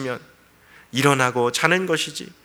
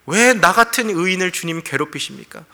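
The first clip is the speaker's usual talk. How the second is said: aggrieved protest; 5 semitones higher, 3 dB louder than usual. Acted. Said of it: "정말 하나님이 실수하신 줄 알았어요".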